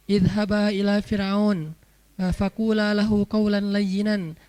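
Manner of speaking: slow, measured verse; Quranic recitation. Acted. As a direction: recite the verse with lengthened syllables.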